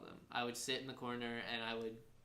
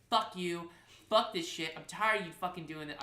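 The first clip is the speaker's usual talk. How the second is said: mildly raised, fed-up rant; retold angry outburst; 3 semitones higher, 5 dB louder than usual. DJ reenacting blowup at roommate, fed-up rant. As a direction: reenact being sick of someone. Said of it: "I lose my shit".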